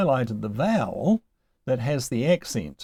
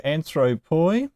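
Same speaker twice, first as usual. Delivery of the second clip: "anthropoi" stressed on its first syllable; 3 semitones higher than usual. Shown as a demonstration. Teacher reciting the noun pattern, first-syllable stress on "anthropoi". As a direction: lean on the opening syllable of "anthropoi". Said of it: "the accent is the third syllable from".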